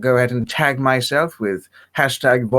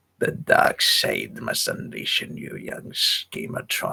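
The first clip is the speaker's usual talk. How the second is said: breathy, whispered put-on voice; 13 semitones lower, 6 dB quieter than usual. Doing a Star Wars villain line for the interviewer: Palpatine impression. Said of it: "you can do a fantastic Palpatine impression".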